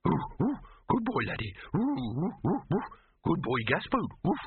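high yippy barks and words; simple, eager doggy greeting; Laddie, excited dog. A narrator's reading. Laddie perking up at Gaspode's visit, excited barking.

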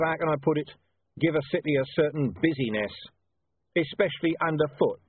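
dry, chatty sarcasm; breezy, menacing small talk; conversational irony. Acted. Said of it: "he went on conversationally".

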